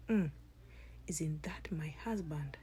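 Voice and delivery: suspicious whisper. Acted. Sister realises it's her husband.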